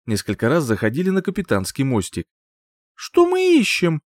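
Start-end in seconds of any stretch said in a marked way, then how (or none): 3.0-4.0 breathless high gasped question; out of breath. Acted. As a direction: ask between gasps after running. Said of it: "Запыхавшись от бега". (запыхавшись)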